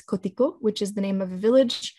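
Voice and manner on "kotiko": "kotiko" with the stress on its last syllable; final stress. Shown as a demonstration. Lecturer giving an example village name, final stress on "kotiko". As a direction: put the weight on the final "ko" of "kotiko". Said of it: "trisyllabic word with final stress".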